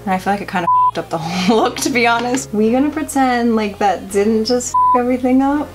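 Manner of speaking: tipsy giggling through the words; laughing at her own mess, a bit tipsy. Real, not acted. Tipsy makeup after champagne, laughing.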